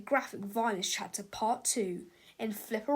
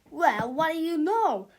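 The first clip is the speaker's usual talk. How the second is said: louder, higher surprised voice; 5 semitones higher, 6 dB louder than usual. A narrator's reading. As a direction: sound amazed it worked. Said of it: "said Mister Sneedley".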